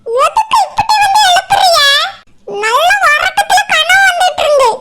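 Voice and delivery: 1 indignant protest. Acted. Woken up, protesting loudly.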